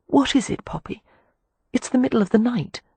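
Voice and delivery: put-on young girl voice. A narrator's reading. Poppy voiced high, woken at night.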